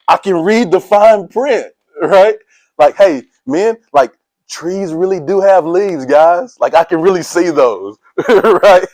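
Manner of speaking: high, slow, wide-eyed wonder at seeing clearly; amazed excitement. Pretend. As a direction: marvel at the world like new glasses just went on. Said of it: "when I got the glasses".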